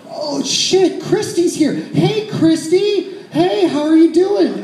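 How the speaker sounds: high, fake-cheery panic; panicked high greeting. Drunk woman caught by friend, squealing high hellos.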